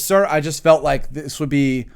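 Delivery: politely pointed, measured retold remark; mock-courteous sergeant to his captain; passive aggressive. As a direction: feign helpfulness to make your point. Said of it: "Passive aggressive".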